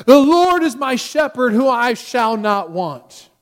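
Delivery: high, loud opening, slowing to a drawn-out close; dramatic recitation. Retold or imitated. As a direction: declaim it like a drama professor demonstrating. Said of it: "goes off in a very dramatic way".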